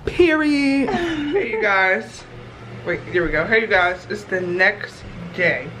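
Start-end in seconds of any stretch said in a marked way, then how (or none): 1.4-5.7 swollen tongue. Real, not acted. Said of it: "My tongue is so swollen".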